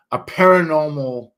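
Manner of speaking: swollen tongue, stumbling start; with a sore tongue. Real, not acted. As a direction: get the words out around a swollen tongue. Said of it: "sorry, my tongue is swollen".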